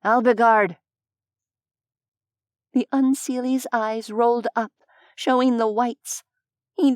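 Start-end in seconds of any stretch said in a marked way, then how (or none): 0.0-0.8 restrained shout of a name; alarmed shout. A narrator's reading. Human sees his friend attacked, alarmed shout. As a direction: call out to him in alarm. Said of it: "the blue-haired human shouted".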